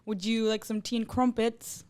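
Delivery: slow, careful attempt at a British accent; a soft, slowed British accent, trying to get it right; mock British accent. Shown as a demonstration. Guest retries her British accent for the UK guest. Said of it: "trying to attempt, like, a U K accent".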